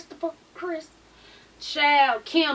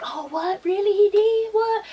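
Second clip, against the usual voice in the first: mock surprise; 7 semitones higher, slower than usual. Mocking fake surprise from the cast.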